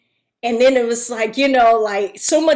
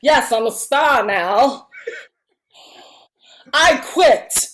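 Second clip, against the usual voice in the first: mock diva; 3 dB louder than usual. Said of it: "diva would've came out".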